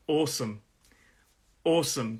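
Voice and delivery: "awesome" with stress on its first syllable, falling away. Shown as a demonstration. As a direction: stress the AWE in "awesome", second syllable light. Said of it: "the stress is on that first syllable".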